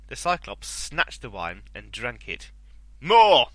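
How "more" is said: big high roar for more; shouting giant. A narrator's reading. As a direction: bellow it like a greedy giant. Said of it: "he shouted".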